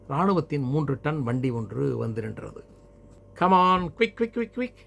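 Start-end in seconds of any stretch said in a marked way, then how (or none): 3.3-4.7 high, loud urgent order; uniformed soldier's shout. A narrator's reading. Soldier from an army truck hurrying the family, loud high shout. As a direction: call out sharply like a soldier hurrying people along. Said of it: "சீருடை குரல் கேட்டது".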